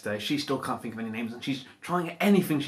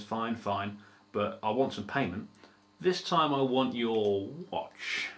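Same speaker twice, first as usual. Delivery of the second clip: troll voice; 3 semitones lower, 4 dB quieter, slower than usual. Acted. Troll voiced lower and softer.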